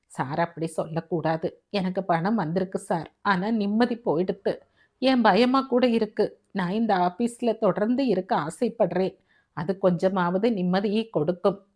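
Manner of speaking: lightly voiced humble employee; timid, pleading employee. Uneasy peon begs his boss to let him stay, meek pleading. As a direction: plead meekly to keep the job.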